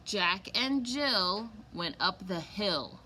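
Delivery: "Jack and Jill went up the hill" read slowly, word by word; slow it down so kids hear the rhyme. Shown as a demonstration. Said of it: "but I'll read it slower".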